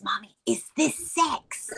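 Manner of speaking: put-on high, curious little girl. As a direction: voice a sweet young daughter. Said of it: "she goes".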